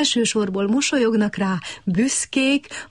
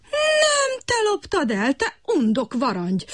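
shrieking insult; 10 semitones higher than usual. A narrator's reading. Frog Kutykurutyki shrieking at Brekeki, high and accusing. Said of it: "sövítette Kutykurutyki".

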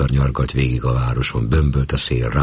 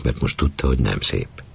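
ordinary delivery

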